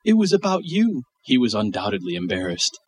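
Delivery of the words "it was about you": put-on child voice. Child voice again.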